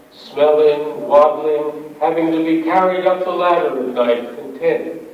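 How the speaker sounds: deliberate, confessional verse reading; poetry reading. Acted. Poet confessing cruelty to a fat pigeon, measured recital. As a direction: recite it line by line with pauses. Reads poem called Fly.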